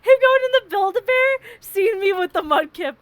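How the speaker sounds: high, loud words bursting through laughter; laughing. Real, not acted. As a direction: tell it while cracking up.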